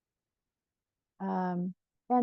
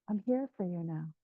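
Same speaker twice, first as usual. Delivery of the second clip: lower, softer, tender words; gentle reassurance; 4 semitones lower, 5 dB quieter than usual. Acted. Speaking to one's younger self, gentle reassurance. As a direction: reassure softly and steadily. Voicing reassurance to inner child.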